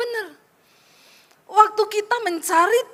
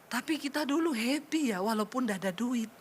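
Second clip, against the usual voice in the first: soft, quietly retold husband's remark; fond reminiscence; 3 semitones lower, 10 dB quieter than usual. Husband recalls poor but happy days to wife, fond. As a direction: lightly voice a husband musing, much softer.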